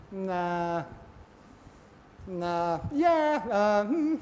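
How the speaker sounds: hesitant, noncommittal noises; dither, unable to decide; mock dithering. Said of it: "we're standing there going".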